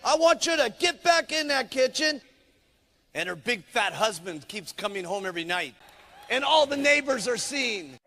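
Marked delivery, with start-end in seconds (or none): 0.0-2.2 high, loud firm pep talk; a lightly voiced pushy coach. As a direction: boss her back into the kitchen. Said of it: "he says".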